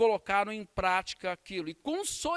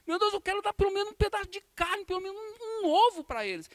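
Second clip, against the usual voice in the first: higher, pleading cry to God; retold tearful plea, much higher; desperate prayer; 10 semitones higher, 3 dB louder than usual. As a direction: beg God for food for her children. Retold prayer of a poor sister.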